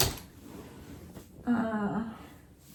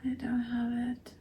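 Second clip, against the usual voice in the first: whispered, defeated; 4 dB quieter than usual. Real, not acted. Repeats it, drained and quiet.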